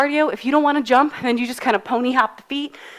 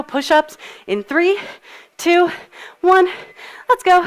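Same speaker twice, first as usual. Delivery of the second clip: pumped-up countdown; 6 semitones higher than usual. Real, not acted. Coach firing up the class for push-ups, energetic countdown. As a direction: count them down with rising energy.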